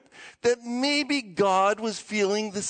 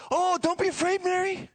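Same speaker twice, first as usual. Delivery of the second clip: higher, lightly acted reassurance; reassuring angel; 4 semitones higher than usual. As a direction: play soothing someone startled. Gabriel reassures Mary with excitement.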